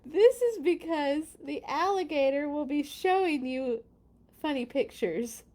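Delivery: lively, lilting picture-book read; storybook narration. A narrator's reading. Reader explaining the alligator's mischief to children, lively narration. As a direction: explain it to young listeners with bounce.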